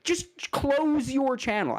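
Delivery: real angry tirade; furious rant. Real, not acted. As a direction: tear into him, voice climbing. Raging insults at YouTuber.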